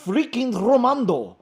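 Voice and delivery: loud, high, rolled-r proclamation; Romando, indignant. Acted. Romando insists on his name, loud indignant accent. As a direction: announce the name with mock indignation. Romando grandly announces himself.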